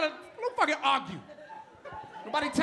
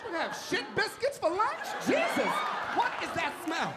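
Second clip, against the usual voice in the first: mock scolding wife; 5 semitones higher than usual. Wife scolds husband for breath on her neck. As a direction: tell him off as the fed-up wife.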